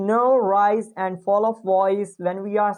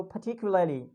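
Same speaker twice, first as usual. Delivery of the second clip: "particularly" with British dropped R; British accent; 4 dB quieter, faster than usual. Shown as a demonstration. Teacher gives the British take for comparison, British accent. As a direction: drop the R in "particularly", British style. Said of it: "if we'll say in British".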